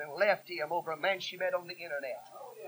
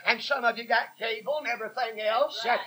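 loud preaching; 2 semitones higher, 8 dB louder than usual. Real, not acted. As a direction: scold the congregation from the pulpit. Preacher scolding parents about cable TV.

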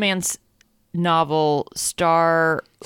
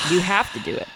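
unvoiced, half-joking whisper of encouragement; teasing whisper. Real, not acted. Co-host whispers to her reluctant reader partner, a teasing whisper. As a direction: lean in and whisper the push.

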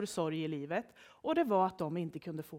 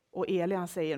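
ordinary delivery, nothing marked

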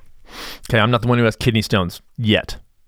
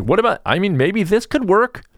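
mock musing; 9 semitones higher than usual. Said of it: "He's like".

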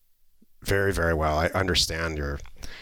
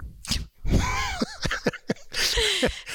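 laughing. Real, not acted. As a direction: burst of amused laughter. Laughing at his own joke.

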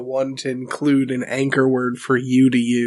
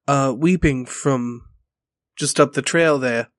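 gentle, careful approach to a stranger, pitched up at first; calm greeting; 3 semitones higher than usual. Acted. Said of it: "slowly and calmly, and I'm like".

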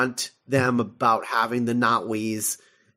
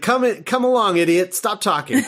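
high, loud and impatient, waving him along with a laugh; bossy condescension; 7 semitones higher, 3 dB louder than usual. Retold or imitated. Psychic woman ordering the doctor she thinks is an idiot, high and bossy. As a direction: treat him like a child who won't stop talking. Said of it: "And she's like".

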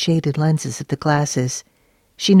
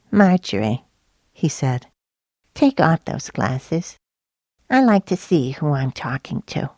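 lightly voiced Truman; 3 dB quieter than usual. A narrator's reading. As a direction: press her gently but won't let go. Truman firmly demands glasses off.

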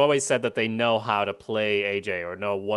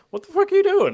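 much higher, louder retold shout; angry shout; 6 dB louder, faster than usual. Tony shouting at his son in the pool, a high angry shout. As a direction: yell it at the kid in the pool.

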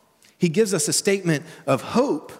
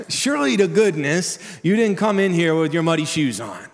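scolding exasperation; 3 semitones higher, 3 dB louder than usual. Retold or imitated. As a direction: scold a kid for muddy shoes. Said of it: "It would be something like".

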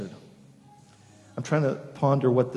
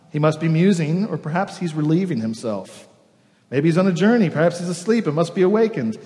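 mocking; 2 semitones higher than usual. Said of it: "Elijah mocked them".

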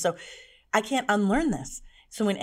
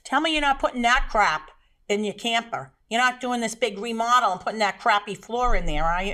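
gruff scolding; 4 semitones higher, 5 dB louder than usual. Retold or imitated. Father scolding about floor.

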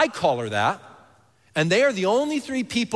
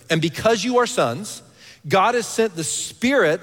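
higher, emphatic scripture reading; 4 semitones higher, 4 dB louder than usual. A narrator's reading. Preacher reads Galatians to congregation, emphatic scripture reading. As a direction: read the verse out to the room.

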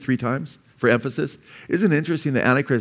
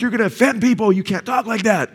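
much higher, prissy scolding; mock scolding teacher; 10 semitones higher than usual. Teacher scolding schoolboys, mimicked much higher. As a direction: play the teacher shrilling at the boys.

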